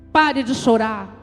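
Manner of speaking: put-on very strong, forceful voice. Retelling a voice heard at night while crying: imitating a very strong voice. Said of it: "eu ouço a voz tão forte".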